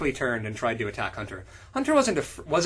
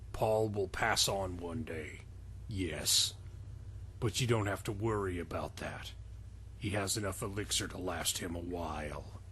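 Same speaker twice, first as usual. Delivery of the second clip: put-on old wizard voice; 7 semitones lower, 11 dB quieter than usual. Voicing Darkodorf.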